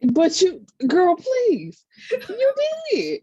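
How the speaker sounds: laughing high through the words. Real, not acted. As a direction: tease her while cracking up. Laughing teasing friend.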